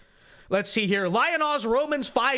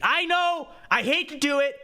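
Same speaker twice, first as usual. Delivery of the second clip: exasperated groan; 6 semitones higher than usual. Real, not acted. Exasperated aside.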